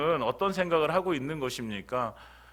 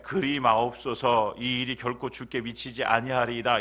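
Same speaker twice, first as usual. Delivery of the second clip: gentle rebuke. Shown as a demonstration. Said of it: "되게 부드럽게 써져 있잖아요".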